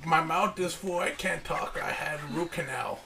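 lightly put-on Asian accent dad; Chinese restaurant accent. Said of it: "you sound just like the people".

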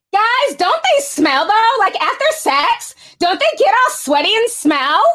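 wrinkle the nose and ask it like a snob; Valley Girl reading voice. Retold or imitated. Streamer reading a chat message in a Valley Girl voice. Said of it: "I know y'all love my reading voices".

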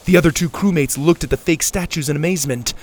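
loud, energetic storyteller; action story narration. A narrator's reading. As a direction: tell the blast with excitement. Narrates the blast.

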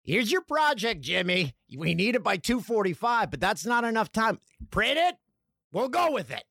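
hammed-up boss handing out a rush job; hurried boss. Boss hands Jimmy the project, mock urgent orders.

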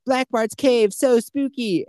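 put-on high, thrilled kid voice; gushing kid. Cartman racing through the restaurant, high and thrilled. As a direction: rattle off the treats in a squealing kid voice. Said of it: "And then he's like".

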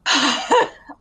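acted big breath out of relief; deep fresh breath. Alley Cat getting oxygen back, deep breath. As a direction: gulp in fresh air. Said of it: "take a deep, deep, fresh breath".

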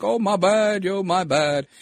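put-on sheepish apology, starting high; high-starting mock mea culpa. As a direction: imitate a newspaper owning up, mockingly. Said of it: "Washington Post, is like".

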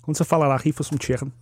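quick model Scouse phrase; brisk Scouse with throaty ch in chicken; Scouse twang. Shown as a demonstration. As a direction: rattle it off in Scouse. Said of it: "get your Scouse twang".

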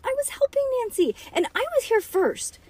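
put-on very high indignant child; high protest. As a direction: protest the unfairness.

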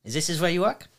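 put-on light French accent, quickening at the end; a hint of French chef host; mock French chef. Chef asking his guest about the restaurant, light French accent. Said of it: "mimic me with my accent".

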